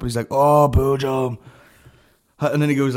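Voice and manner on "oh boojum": drawn-out, delighted mock recognition; enthusiastic. Keen stranger learns it's the burrito shop, enthusiastic. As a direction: stretch it out in eager imitation. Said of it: "just so enthusiastic".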